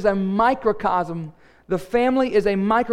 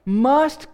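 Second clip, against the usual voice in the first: "must" repeated with firm emphasis; "must" stressed to drive it home; 3 semitones higher than usual. Real, not acted. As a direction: hit "must" firmly as the key word. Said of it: "let me emphasize the word must".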